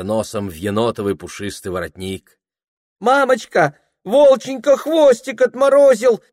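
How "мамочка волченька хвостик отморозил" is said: put-on high lisping little-girl baby talk; cutesy baby talk. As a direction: coo it like a small child. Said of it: "сюсюкает быстроглазая Верочка".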